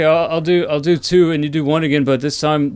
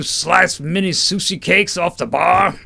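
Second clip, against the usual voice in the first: slow biker jeer into laughter; mocking biker; 2 semitones higher, slower than usual. Biker joking about the sword woman, slow mocking. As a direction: jeer slowly at the newcomers.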